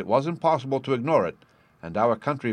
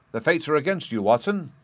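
laughing lightly; 4 semitones higher than usual. Acted. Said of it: "said he, laughing".

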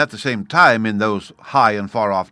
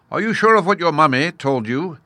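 high, teasing hedgehog; 7 semitones higher, 5 dB louder than usual. A narrator's reading. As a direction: needle the jaguar with a sly high question.

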